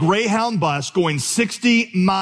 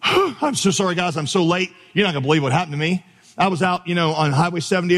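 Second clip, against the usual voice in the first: mock out of breath; 2 semitones higher than usual. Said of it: "I'm out of breath".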